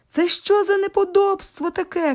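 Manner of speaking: put-on high, indignant yell at noisy kids; outraged neighbour demanding what's going on; angry shout. A narrator's reading. Neighbour in a robe bursts in, yelling at the children. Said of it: "кричить".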